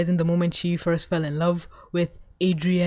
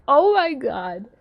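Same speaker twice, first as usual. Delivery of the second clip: slow, high awed gasp; 6 semitones higher, much slower than usual. Real, not acted. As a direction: breathe it out in awe. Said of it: "and I'm like".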